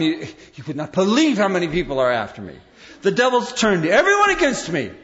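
mock paranoid, rising and laughing; hammed-up churchgoer sure the devil is after them; paranoid complaint. Preacher mimics a paranoid person grabbing a friend, laughing. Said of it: "grab somebody and tell them".

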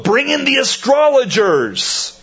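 high, urgent royal command; crying aloud. Acted. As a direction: call it out high like a panicked king. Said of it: "cried aloud".

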